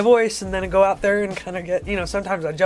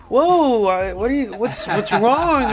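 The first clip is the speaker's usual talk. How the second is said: startled; 5 semitones higher, 4 dB louder, slower than usual. Retold or imitated. Acting startled fans' reaction.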